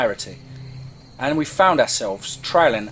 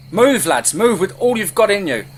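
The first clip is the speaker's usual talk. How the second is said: loud, higher rallying call; urgent urging shout; 7 semitones higher, 5 dB louder than usual. Acted. Leader to fleeing companions at his back, urgent shout. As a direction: drive the lads on as you flee.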